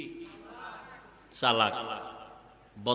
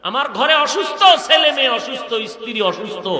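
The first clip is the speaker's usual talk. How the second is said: raised, insistent preacher's cry; preaching; 6 semitones higher, 6 dB louder than usual. Real, not acted. Preacher listing the sick at home for a prayer, raised preaching. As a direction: pile up the list with mounting force.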